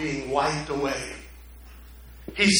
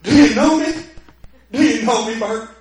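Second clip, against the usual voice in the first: higher, louder, bursting with wonder; can't believe he's recognized; astonished joy; 5 semitones higher, 8 dB louder than usual. Retold or imitated. George asking the cop if he knows him, astonished. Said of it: "George goes".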